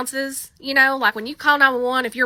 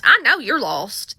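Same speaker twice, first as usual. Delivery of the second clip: ordinary delivery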